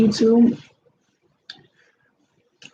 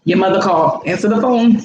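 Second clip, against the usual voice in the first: louder, firm demand; insistent; 4 dB louder than usual. Real, not acted. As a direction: tell him to pick up. Insisting partner answer phone.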